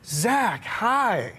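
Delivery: lightly voiced gentle pop star greeting a fan. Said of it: "And he goes".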